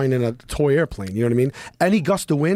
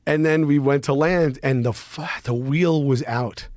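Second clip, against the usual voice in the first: normal talking voice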